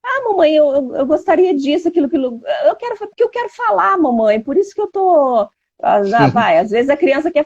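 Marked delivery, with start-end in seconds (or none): 0.0-5.5 put-on higher, childish pleading voice; imitating a little girl. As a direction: mimic a small daughter begging to talk. Mother imitates her pleading daughter. (imitando a voz da filha pequena)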